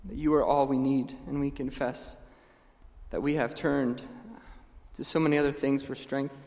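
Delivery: soft, hushed prayer voice. Acted. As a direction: pray it humbly and quietly. Closing prayer.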